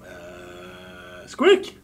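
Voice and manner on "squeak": very high squeaky cry; squeak. Acted. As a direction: squeal like a tiny creature. Creature name squeaked.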